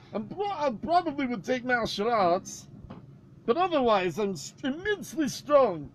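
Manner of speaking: lightly put-on Yorkshire lad boasting; North English accent. Friends riffing on a manager in a Northern English accent. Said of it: "good British accents".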